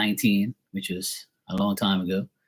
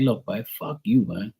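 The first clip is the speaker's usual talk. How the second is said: angry retort; 4 semitones higher than usual. Retold or imitated. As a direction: tell him off, building to a shout. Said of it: "And I was like".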